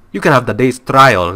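loud, unplaceable mock Asian accent; game boss in a confused Asian accent; muddled Asian accent. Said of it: "I don't even know what this accent is".

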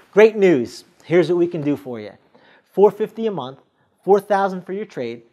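bright and upbeat, then easing into a smooth close; confident. Shown as a demonstration. Salesperson presenting the deal to customers, confident. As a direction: sell the numbers like it's good news.

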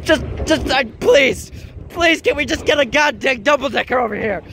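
high-pitched exasperated begging; frantic pleading. Real, not acted. Vlogger begging for a double decker train, frantic pleading. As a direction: plead desperately, stumbling at the start.

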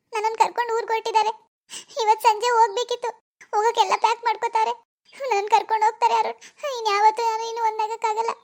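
acted weepy, helpless account; tearful. Girl telling her boyfriend of the beating, tearful. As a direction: pour it out as if still crying. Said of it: "ಮೊದ್ಲು ಅಳದ್ ನಿಲ್ಸು".

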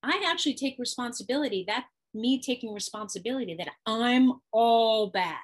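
mildly hammed-up defensiveness; defensive refusal. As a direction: make excuses, then blurt it out. Voicing the shamed person refusing blame.

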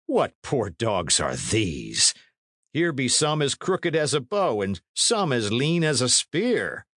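a high, scornful knight jeering at his men; mocking knight. A narrator's reading. Knight jeering at new troops, high and scornful. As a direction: sneer at the ragged recruits from on high.

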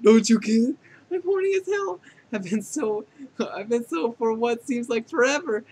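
high, worked-up outburst easing slightly; frantic, pleading blurting; desperate confession. Acted. AI character blurts out desperate desire.

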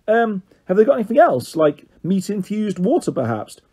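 a prim little dog asking for something fancier; playful pup voice; character voice. A narrator's reading.

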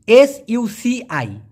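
letters spelled out slowly; slow spelling out. Shown as a demonstration. Teacher spelling a Malay word for learners, slowly. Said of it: "এটা হবে সুচি".

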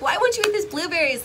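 put-on high, exasperated plea to the baby; begging the baby to just eat; pleading. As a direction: mock-desperate question to the baby. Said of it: "I'm like".

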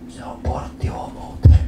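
hushed, slow conspiratorial whisper; mock whisper. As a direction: whisper it like a dark secret. Friend's warning, whispered. (kuiskattu varoitus)

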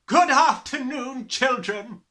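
high, very loud, drawn-out greeting; barked. A narrator's reading. Headmistress greeting her class, barked. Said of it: "she barked".

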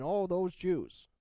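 lightly voiced sneering Gentile; mock Gentile sneer. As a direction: sneer it like a scornful outsider. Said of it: "a Gentile saying".

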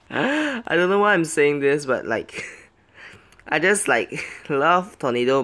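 real laughter breaking into the words; laughing. Real, not acted. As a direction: talk through little laughs. Laughing at own play.

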